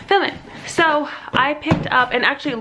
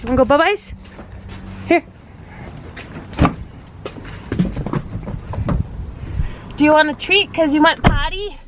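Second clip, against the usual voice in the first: talking to a dog; 5 semitones higher than usual. Real, not acted. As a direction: tease the dog with a treat. Offering the dog a treat.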